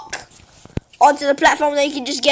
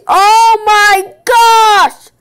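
high, loud, slow drawn-out gasp of words; shocked; 8 semitones higher, 6 dB louder, much slower than usual. Real, not acted. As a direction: stretch it out in shock. Sees the murderer strike.

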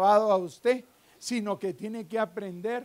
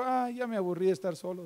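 imitated tiredness; 2 semitones lower, 6 dB quieter, faster than usual. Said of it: "cuando se cansó dijo".

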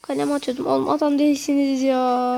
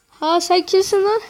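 loud, higher challenging shout; indignant yell; 7 semitones higher, 5 dB louder than usual. Real, not acted. Yelling at opponents in game.

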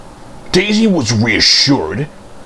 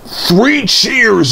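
calling out; 9 semitones higher than usual. Acted. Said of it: "he called".

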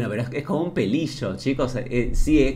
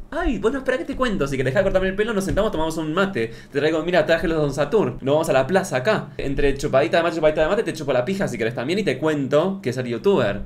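hammed-up diva; 2 semitones higher than usual. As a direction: play an over-the-top flirty diva. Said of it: "mock flamboyant reply to barber". (diva exagerada y aguda, en broma)

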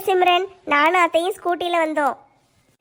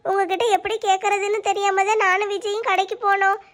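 slightly raised, emotional pleading; tearful apology; 2 semitones higher than usual. Acted. Daughter-in-law apologises and thanks her uncle, tearful. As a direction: apologise earnestly, close to tears.

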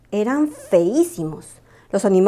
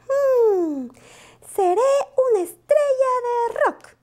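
muy agudo, soñador; sueña con el estrellato; ilusión; 14 semitones higher, slower than usual. Acted. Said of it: "exclamó". (Lupo imagina ser estrella, agudo e ilusionado)

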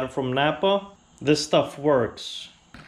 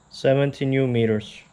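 robot voice. Real, not acted. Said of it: "Wow, I sound like a robot there".

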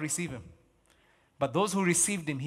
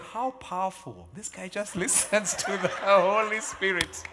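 laughing imitation; 3 semitones higher, 3 dB louder, slower than usual. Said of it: "guys would be like".

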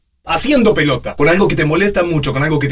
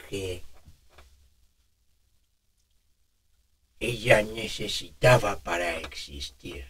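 put-on toothless old man; 3 semitones lower, slower than usual. Shown as a demonstration. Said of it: "Simular una dentadura postiza".

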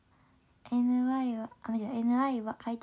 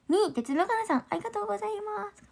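much higher and fast, bubbly; chirpy idol-style thank-you; bright excited thanks; 9 semitones higher than usual. Real, not acted. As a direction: gush your thanks in a quick high burst.

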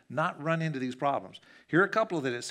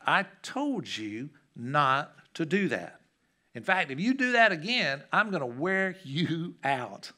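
stern warning; 3 dB louder, slower than usual. Retold or imitated. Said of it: "And I'm like".

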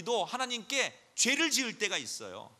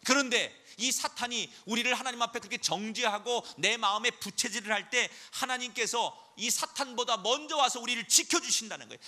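ordinary delivery

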